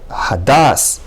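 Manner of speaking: "hadas" with short first a, long second a; hadas, first a brief, second a drawn out; short then long a. Shown as a demonstration. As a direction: say "hadas": quick ha, stretched das. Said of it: "the second a is longer".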